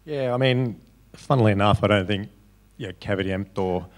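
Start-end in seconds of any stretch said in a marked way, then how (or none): 3.0-3.9 "Caveat Emptor" in a playful Latin accent. Shown as a demonstration. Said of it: "I'll say it with my best Latin accent".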